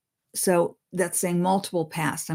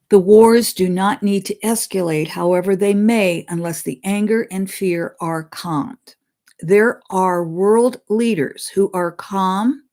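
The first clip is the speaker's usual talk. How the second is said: measured, slightly raised reading voice; solemn read-aloud of a spirit's words; reading a channeled message; 4 dB louder than usual. Acted. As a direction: deliver the message deliberately, like scripture.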